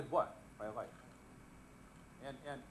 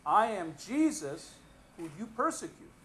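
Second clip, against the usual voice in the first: voice of Jesus; 4 semitones higher, 7 dB louder than usual. Acted. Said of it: "And the voice says".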